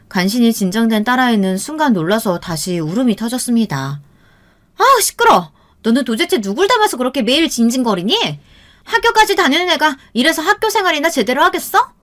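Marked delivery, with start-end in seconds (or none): 4.8-11.9 put-on high, exasperated outburst at a crying child; harsh scolding. A narrator's reading. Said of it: "계속해서 모진 소리를 이어갔어요". (모질게 쏘아붙이는 높은 목소리)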